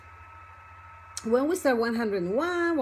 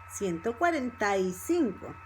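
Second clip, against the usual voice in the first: number linked up, with a falling finish; fast connected speech; 3 semitones lower than usual. Shown as a demonstration. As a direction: run the words together without gaps. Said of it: "if you speak fast".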